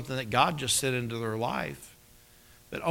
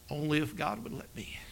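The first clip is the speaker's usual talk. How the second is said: hushed whisper; 8 dB quieter than usual. Acted. His heart's silent answer.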